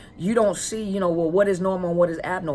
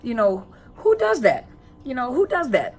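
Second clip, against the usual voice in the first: millennial slang; 6 semitones higher, 3 dB louder than usual. Retold or imitated. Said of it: "what did the millennials say".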